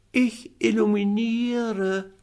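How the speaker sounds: high, slow, proud little cat voice; cat calling down. Acted. Little cat calling down to the boy, high and slow. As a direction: draw it out grandly from up the tree. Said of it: "rief die kleine Katze herunter".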